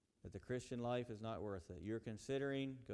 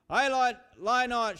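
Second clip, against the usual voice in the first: louder, higher demon's shriek; 14 semitones higher, 19 dB louder, slower than usual. Acted. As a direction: shriek it back at the man. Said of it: "shrieks the demon".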